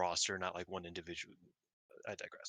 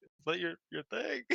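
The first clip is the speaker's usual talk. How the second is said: retold crowd yell; 9 semitones higher, 3 dB quieter than usual. Crowd calling out to the wrestler, mock yell. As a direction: imitate a yelling crowd in a high voice. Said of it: "like, like, yelling".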